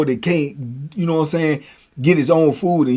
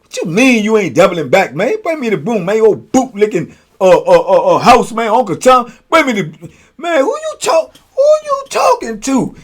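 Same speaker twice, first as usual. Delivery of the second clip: imitating B, louder and higher, yelling; rising into a high furious yell; mock angry yell; 6 semitones higher, 5 dB louder than usual. B yelling at houseman.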